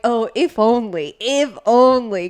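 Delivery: slow, drawn-out swoon; wistful longing. Acted. Wife swooning over a romantic movie hero, wistful longing. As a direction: sigh it longingly, stretching each word. Acting out wishful longing for him.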